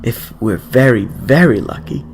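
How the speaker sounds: put-on an excited old woman hurrying the boy along; eager grandmother.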